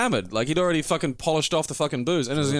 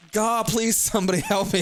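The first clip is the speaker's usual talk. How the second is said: higher, sing-song Scottish begging; mock Scottish plea; 8 semitones higher than usual. Storyteller re-enacting the Scottish boyfriend's plea, high mock Scottish wail. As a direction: replay the hammed-up Scottish cry. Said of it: "this thick Scottish accent going".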